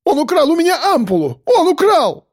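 shrill accusing shriek. A narrator's reading. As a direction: screech the accusation in panic. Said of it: "взвизгнул, закричал".

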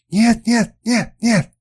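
very high, loud panicked cries; hysterical no. A narrator's reading. Kernus refusing the duel, very high hysterical cries. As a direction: scream the refusal in terror.

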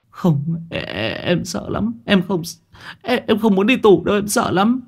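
high, stammering, frightened pleading; panicked refusal. Acted. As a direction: stutter it out, voice pitched high in fear. Refusing to turn himself in.

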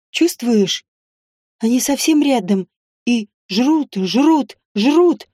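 slow, menacing hissed taunt; sinister hiss. Acted. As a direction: hiss it like a lurking villain. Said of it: "зловеще прошипела".

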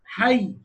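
حي ending on a clearly doubled y; إظهار التشديد في حي; doubling shown at the stop. Shown as a demonstration. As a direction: press the shadda in حي. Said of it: "لازم أظهر التشديد".

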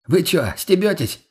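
high, slow disbelieving question; incredulous challenge. Acted. Friend asking if the couple are joking, incredulous.

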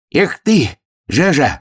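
high-pitched exclamation; reproachful hare. A narrator's reading. Hare reproaches the captured hedgehog. (высокий укоризненный голос зайца)

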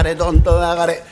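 low, slow battle chant rising to a shout; kōshaku recitation. Acted. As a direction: drone out the army count, then burst into the assault. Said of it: "講釈師というのは我々話し方はまたちょいと違いましてね". (低くゆっくりした講談調から叫びへ)

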